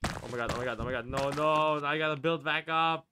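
panicked loud cries; real panic as he falls; scared horror game streamer. Real, not acted.

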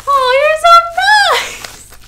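a very high, loud squeal of delight. Real, not acted. Finding a sweet note from a viewer, delighted squeal. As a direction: squeal it like a surprise gift.

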